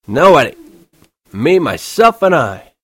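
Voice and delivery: put-on high, loud, slow drunken bellow; drunken shouting. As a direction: slur it loud into the phone, very drunk. Drunk Holden.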